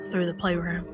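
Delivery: spooky whisper. Acted. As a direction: breathe it like a secret. Dreaded room, spooky aside.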